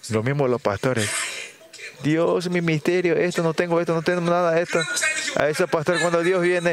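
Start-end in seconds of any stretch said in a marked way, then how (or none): 2.0-4.8 mock needy prayer. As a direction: imitate a pastor moaning about lacking everything. Mimics pastors' needy prayer. (oración quejosa fingida, lenta y aguda)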